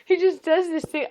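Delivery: high, loud, drawn out through laughter; laughing. Real, not acted. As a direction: protest how funny it is, giggling. Cracking up over her son.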